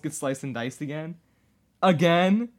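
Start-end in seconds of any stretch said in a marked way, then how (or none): 1.8-2.5 loud, high, rising disbelief; raised pitch, loud and astonished; incredulous question. Real, not acted. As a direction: throw it out as an appalled question. Incredulous at repeated accident.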